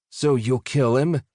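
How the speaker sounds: eager, slow hopeful question. A narrator's reading. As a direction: ask with eager hope. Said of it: "Nasal Voice asked hopefully".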